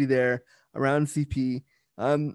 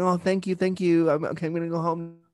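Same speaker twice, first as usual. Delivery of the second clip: polite smiling thanks; 4 semitones higher than usual. Retold or imitated. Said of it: "being polite and smiling and saying".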